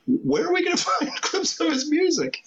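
high, laughing disbelief; as if it's absurd; incredulous. Retold or imitated. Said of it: "I'm like".

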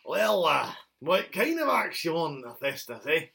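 lightly voiced dwarf tradesman; dwarf blacksmith. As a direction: play a dwarf smith taking an order. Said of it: "Was he dwarf?".

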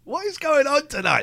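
high whispered question; whispering. Pretend. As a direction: whisper it spookily. Mock spooky whisper.

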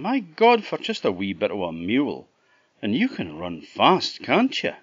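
high, quick, cheeky fool Jack. Acted. Jack refusing the fine mares, high and cheeky. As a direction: brush it off with a laugh in the voice.

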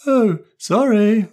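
put-on high, slow sheepish girl's oh sorry; apologetic girl. Anne apologising for forgetting the video, sheepish. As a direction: sound sheepish and small. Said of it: "apologised Anne".

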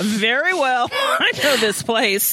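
slow, laughing, smug mock Matthew. Podcaster voicing Matthew knowing the place, laughing and slow. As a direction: drag it out through a laugh, smug.

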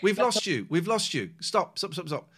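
loud, high, urgent calling. Real, not acted. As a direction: cut in loudly over a lost connection. Call drops, shouting after co-host.

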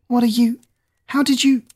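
high, startled stammering questions; surprised. Acted. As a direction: blurt it out in shock. Stunned at sudden rescue.

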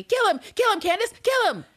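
mock crowd yelling. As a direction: chant it like a crowd egging her on. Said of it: "people yelling at me".

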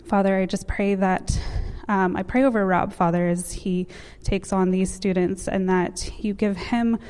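earnest prayer voice. Acted. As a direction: pray it softly and sincerely. Leads a prayer over students.

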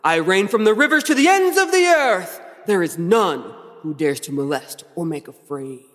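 slow, booming theatrical Lucifer; dramatic villain monologue. Pretend. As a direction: declaim it like a stage devil. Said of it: "Is that good? You like that?".

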